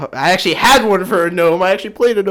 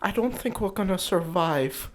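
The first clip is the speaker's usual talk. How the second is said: nervous halfling; 6 dB quieter than usual. Shown as a demonstration. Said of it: "Give me, like, a nervous halfling".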